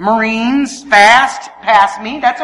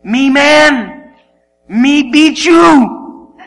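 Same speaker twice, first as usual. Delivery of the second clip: lightly voiced caveman, emphatic; mock caveman boast; 3 semitones higher, 5 dB louder, much slower than usual. Husband boasting to wife before a race, mock caveman. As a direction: thump out each word like a boastful caveman.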